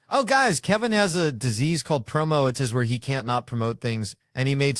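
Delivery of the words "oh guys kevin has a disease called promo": exasperated groan. Real, not acted. Exasperated at Kevin's promo.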